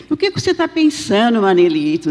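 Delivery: joking lilt, pitched well up; playful teasing. Retold or imitated. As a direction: tease him to distract and cheer him. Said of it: "Pra ele, né, distrair um pouquinho".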